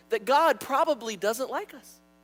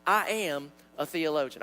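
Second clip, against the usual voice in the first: slow, lower Southern drawl; Southern accent; 5 semitones lower, slower than usual. Shown as a demonstration. Pastor modeling the confession for his congregation, slow Southern accent. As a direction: show them a drawn-out Southern accent. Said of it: "with your best Southern accent".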